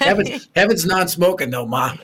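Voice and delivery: laughing through the joke. Retold or imitated. Son teasing his mom about smoking, laughing. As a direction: tease her while laughing.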